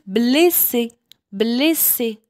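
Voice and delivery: "blessé" in two clear syllables with an unvoiced S; teacher's model of "blessé", SS as one hissed S; double S as S. Shown as a demonstration. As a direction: say "blessé" as "blé-sé", no buzzing Z. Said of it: "Ça se prononce".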